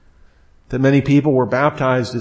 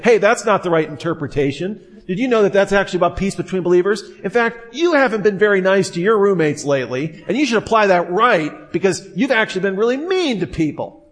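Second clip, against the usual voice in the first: higher, fast know-it-all lecturing; smug correction; 6 semitones higher than usual. Pretend. Tactless friend lecturing the crying girl, higher and fast.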